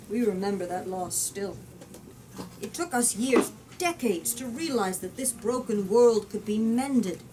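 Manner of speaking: reading an explorer's speech to Parliament; slow, grave oratory read aloud; story narration. A narrator's reading. Explorer addressing Parliament, slow grave speech.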